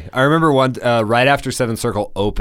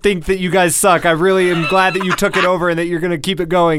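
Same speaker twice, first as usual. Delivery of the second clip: panicked apology; 9 semitones higher than usual. Retold or imitated. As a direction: blurt it out in a panic. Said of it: "messaged me in, like, all caps".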